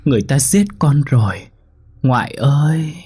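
put-on high, tearful little child's voice, begging; a lost dead child crying for help at night; pleading ghost child. Ghost child pleads with her grandmother, high and tearful.

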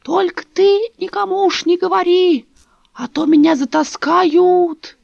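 put-on high, quavering old woman lamenting; old neighbour tells Dasha of the bodies, high and mournful; old woman's voice. A narrator's reading.

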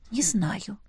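breathy whispered sigh. A narrator's reading. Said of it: "я вздохнула". (вздохом, шёпотом)

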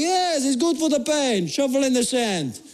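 hint of a matter-of-fact local; lightly voiced lifeguard. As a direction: hand out useless advice slowly. Lifeguard's retold advice.

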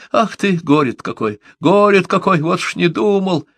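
put-on an old man dazed and lamenting; dazed mumbling. A narrator's reading. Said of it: "ошалело бормотал Джонсон".

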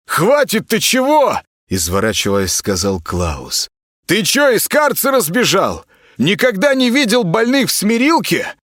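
high, brash and rude, hurling insults; high, scornful voice of a bratty celebrity patient. Acted. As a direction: snap at the stranger like a spoiled star. Klaus voice.

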